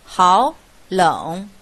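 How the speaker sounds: 好 rising like a second tone before a full-third-tone 冷; 好冷 said hǎo as háo, then 冷 dipping; third-tone sandhi. Shown as a demonstration. Teacher demonstrates third-tone sandhi, 好 rising as second tone. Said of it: "则前面变为二声".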